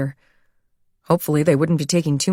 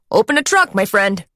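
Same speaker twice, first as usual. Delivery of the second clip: put-on New York accent; 4 semitones higher than usual. A narrator's reading. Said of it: "in a nasal New York accent".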